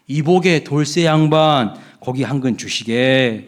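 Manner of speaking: courteous, slow request to the butcher; polite nobleman. Retold or imitated. Second nobleman asking the butcher politely. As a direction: ask kindly, with respect. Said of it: "약간 다르게 이야기합니다".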